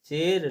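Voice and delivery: चेयर run together as "cher"; wrong chart reading. Shown as a demonstration. Teacher reads it by barahkhadi, चेयर said "cher". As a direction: say चेयर as one syllable, "cher". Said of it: "बारह खड़ी के अनुसार".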